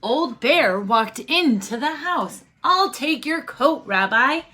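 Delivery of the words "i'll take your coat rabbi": high, bright welcome to the rabbi; cheery old granny. Acted. Old granny greeting the rabbi at her door, high and delighted. Granny offering to take coat.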